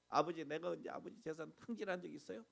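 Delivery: self-righteous believer grumbling loudly; indignant complaint. Retold or imitated. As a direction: protest your own goodness to God. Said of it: "막 이런 적이 있어요".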